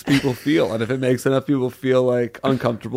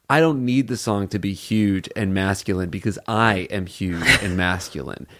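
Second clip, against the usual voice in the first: playful coy voice; 4 semitones lower than usual. Pretend. Cohost voicing the bodybuilder's attitude, playfully coy. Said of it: "it's almost like".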